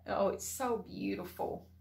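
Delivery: normal talking voice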